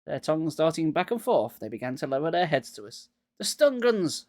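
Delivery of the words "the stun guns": high, urgent cry; cried out. A narrator's reading. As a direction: blurt out the idea. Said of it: "I cried".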